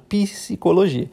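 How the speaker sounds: "psicologia" slowly, with the initial P clearly sounded; pronounced P. Shown as a demonstration. Teacher showing Portuguese mute letters still sounded, P articulated slowly. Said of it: "mas ele é pronunciado".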